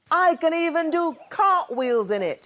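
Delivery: high gleeful whoop. A narrator's reading. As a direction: brag with joy while tumbling. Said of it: "he whooped".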